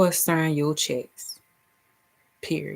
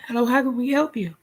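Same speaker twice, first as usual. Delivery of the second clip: drive-thru worker; 5 semitones higher, faster than usual. Pretend. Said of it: "pull up Chick-fil-A".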